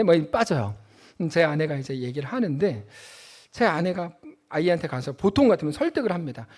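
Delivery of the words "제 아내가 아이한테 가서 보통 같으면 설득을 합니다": ordinary delivery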